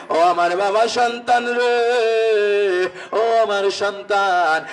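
slow, long-drawn melodic call; father calling out. Acted. Father calls to his child in a story, drawn-out calling. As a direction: stretch the call out like a chant. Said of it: "বাবা ডাক দিয়া বললেন".

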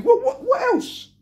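high, slow, laughing in disbelief; incredulous laugh. Real, not acted. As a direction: laugh it out, can't believe it. Fan ranting with disbelief.

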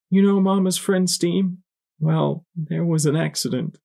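high, gentle motherly voice; mother to child. A narrator's reading. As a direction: break bad news to a little one. Mother breaks news to small child.

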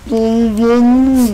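barely intelligible, stuffed mouth; mouth full. Real, not acted. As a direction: garble it through marshmallows. Mouth packed with marshmallows.

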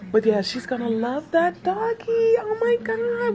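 high, voice breaking with tears; choked up with happy tears; teary. Real, not acted. Friend hears news of dog, tearful and moved. Emotional reaction to gift news.

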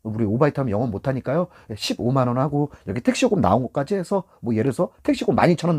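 mild, low-key appeal; gentle coaxing. Shown as a demonstration. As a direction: coax the customer gently. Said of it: "손님하고 살살 달래서".

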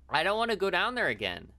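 high, loud, wailing protest; whiny dread. Acted. Player refusing to return to the basement, loud whiny dread. Protests going back, then repeats.

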